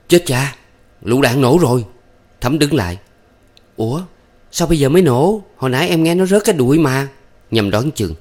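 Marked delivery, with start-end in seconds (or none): 0.1-1.9 startled exclamation, higher; alarmed cry. A narrator's reading. Nhâm gripping Thắm's hand at the blast, alarmed. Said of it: "kêu lên". 3.8-7.1 puzzled. A narrator's reading. Puzzled woman after explosion.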